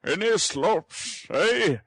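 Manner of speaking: brisk and fussy; brisk old gentleman. Acted. Brownlow quizzes the housekeeper about food.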